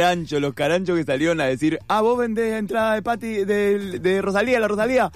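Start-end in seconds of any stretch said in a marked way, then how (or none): 1.9-5.1 higher-pitched imitation of a scavenging reseller; mock opportunist buyer. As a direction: pounce on the seller in a mock high voice. Imita a los caranchos revendedores.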